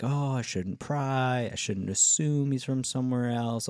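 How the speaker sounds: drawn-out mock reluctance; hesitant inner voice. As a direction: lightly act out a nagging self-doubt, stretched out. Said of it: "telling those voices to shut up".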